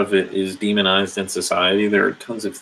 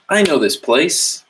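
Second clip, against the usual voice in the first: tiger recognizing home; 8 semitones higher, 4 dB louder than usual. Retold or imitated. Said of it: "And then the tiger goes".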